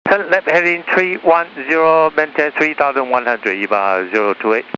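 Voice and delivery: pilot over the radio. Real, not acted. Pilot reads back on radio.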